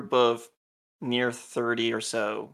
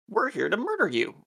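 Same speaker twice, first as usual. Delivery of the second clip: joking; 8 semitones higher than usual. Shown as a demonstration. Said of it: "Kind of like a joking".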